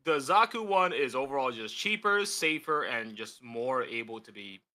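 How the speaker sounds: a bit tipsy, loose and rambling. Real, not acted. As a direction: talk like you've had a few drinks. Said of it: "I'm a little tipsy".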